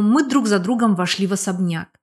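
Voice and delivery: usual speaking voice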